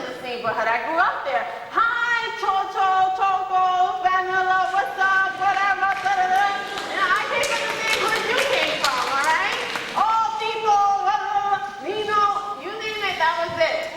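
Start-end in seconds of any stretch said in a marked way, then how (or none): 1.7-6.4 put-on higher, bright-pitched hellos to old friends; calling out to the crew, slowly and high; excited greetings. Back in the bodega greeting friends, excited and high. 9.9-12.2 high, drawn-out calls to friends; calling out names. Retold or imitated. Spotting friends in the store, excited high calls.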